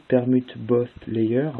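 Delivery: English term in a French speaker's English accent; slow, careful go at English pronunciation; attempted English accent. Real, not acted. Cubing teacher naming the next step, attempted English accent. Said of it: "superbe accent anglais".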